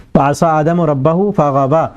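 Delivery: slow, measured recitation of the verse; Quranic recitation. Shown as a demonstration. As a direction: recite the Arabic slowly with tajweed. (قرآنی آیت کی دھیمی تلاوت)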